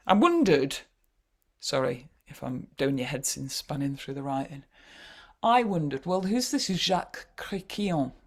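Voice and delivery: a Yorkshirewoman putting on French; hammed-up French accent, Yorkshire vowels. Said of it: "Did you like my Yorkshire French accent?".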